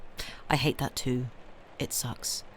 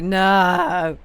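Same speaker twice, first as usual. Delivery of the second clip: mock outraged shout; 4 semitones higher, 10 dB louder than usual. Pumpkin spice already, mock outrage.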